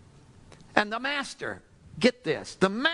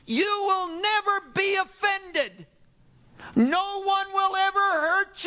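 preaching at full force; 10 semitones higher than usual. Real, not acted. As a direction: drive the point home to the crowd.

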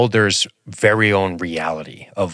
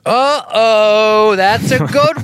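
high squeaky voice; 6 dB louder, much slower than usual. Pretend. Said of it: "You sound a little spooky".

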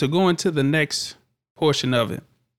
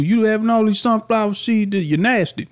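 mock disgusted; 8 semitones higher than usual. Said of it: "people be quick to call y'all for it".

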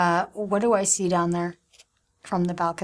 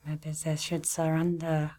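whispering; 2 semitones lower, 7 dB quieter, slower than usual. Real, not acted. Whispered aside at the table.

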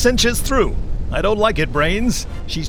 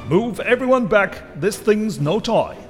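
shouted warning; 9 semitones higher, 6 dB louder than usual. A narrator's reading. Virgil calls warning over machine.

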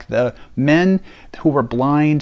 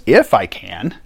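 indignant; 3 dB louder than usual. Retold or imitated. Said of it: "Jesus looks at him indignantly and goes".

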